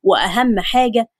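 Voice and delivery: a touch of male authority, pitched a little down; hint of a bossy household voice; lightly voiced bossy man. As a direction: hand out chores like the man in charge. Voices Khaled giving out chores.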